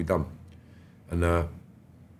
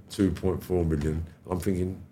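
usual speaking voice

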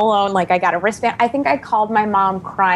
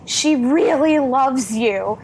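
slowly spelling it out; slow, deliberate; 4 semitones higher, slower than usual. Retold or imitated. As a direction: say it slowly, like explaining to someone. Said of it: "her assistant was slowly like".

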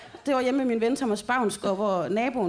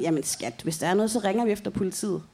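imitating calm reassurance. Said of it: "Lars er sådan".

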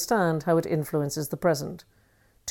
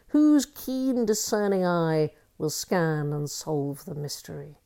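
slow, measured poetry reading; poem recitation. Shown as a demonstration. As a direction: read it like a solemn recital. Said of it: "I shall read Georgia Douglas Johnson".

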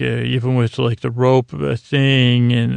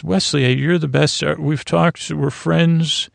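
guru Riker; 3 semitones higher than usual. Retold or imitated. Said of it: "He's turned into, like, a, a guru".

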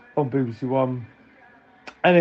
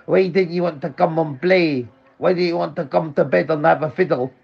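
higher put-on mum voice, teasing; mocking mum; 5 semitones higher than usual. Mum teasing her son about going to bed, higher mock voice. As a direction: lightly voice Mum needling him. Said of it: "She goes".

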